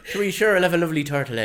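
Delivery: quick put-on Irish lilt; mock Irish voice; Irish accent. Shown as a demonstration. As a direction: do a brisk, jokey Irish accent. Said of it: "from Somerset to Irish".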